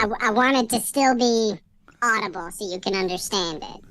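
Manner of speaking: high-pitched voice filter; sped-up chipmunk voice effect. Real, not acted. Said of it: "We want the high-pitched one".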